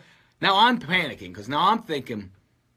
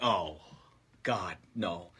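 strained groan under weight; 10 semitones lower, 8 dB quieter, much slower than usual. Retold or imitated. Straining to lift the heavy machine.

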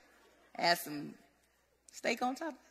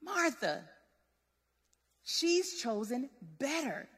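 softer, slower, kind correction; gentle, not angry; 3 semitones lower, 9 dB quieter, slower than usual. Retold or imitated. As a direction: correct her kindly, without reproach. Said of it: "He's not mad or he's not angry".

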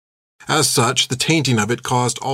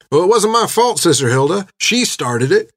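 higher, louder, whining defence; whiny protesting boy; 6 semitones higher, 3 dB louder than usual. A narrator's reading. Boy blaming the girl to the nun, high whiny protest. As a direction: plead your innocence, a bit shrill. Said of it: "said Danny".

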